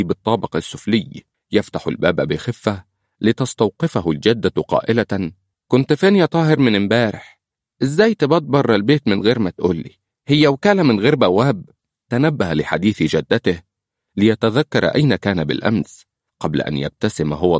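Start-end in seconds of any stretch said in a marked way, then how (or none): 5.7-11.6 high, loud scolding, rushing the middle; scolding grandmother. A narrator's reading. Grandmother scolding her grandson for staying out, loud and high. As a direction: tell him off for staying out all night.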